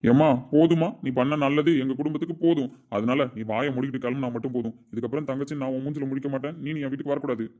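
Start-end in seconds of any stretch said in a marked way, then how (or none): 0.0-2.7 loud, biting challenge; angry retort. Acted. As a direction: snap it back at her in anger. Angry brother confronts sister. (உரத்த கோபக் கேள்வி)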